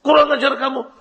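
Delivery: a touch of mock outrage; offended retort. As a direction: snap back as if insulted, half-hearted. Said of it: "marah dia".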